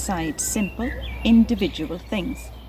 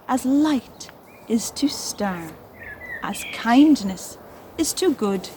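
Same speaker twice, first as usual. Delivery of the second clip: slow, measured poem recital; poem reading. Acted. Teacher reading the poem aloud to children, slow and measured. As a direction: read each line like a gentle riddle.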